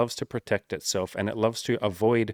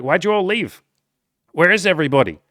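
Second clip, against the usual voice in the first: much higher, louder lost cry; bewildered mock wail; 8 semitones higher, 8 dB louder than usual. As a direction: call out for those who left. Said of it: "you're like".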